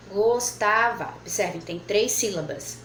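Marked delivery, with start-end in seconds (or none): 0.1-1.1 "Gostava" drawn out slowly to hear the syllables; slow sounding out. Shown as a demonstration. Teacher asking pupils how to split gostava. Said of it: "Como é que a gente pode separar".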